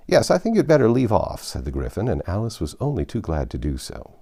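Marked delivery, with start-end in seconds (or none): 0.1-1.4 loud. Acted. Gryphon cuts Alice off.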